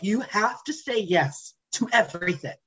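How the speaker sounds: mock drill sergeant to self; stern pep talk to self. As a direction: lay down the law to yourself. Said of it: "I told myself".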